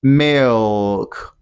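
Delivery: 'Milk' with a dark L, sounding like 'mi-ohk'. Shown as a demonstration. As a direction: draw out 'Milk' with an oh-like L. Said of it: "tongue must come from down to up".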